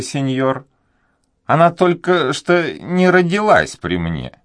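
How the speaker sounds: put-on a fretful old servant afraid to speak; timid old duenna. A narrator's reading. Old duenna hesitating before the young nobleman, high and anxious.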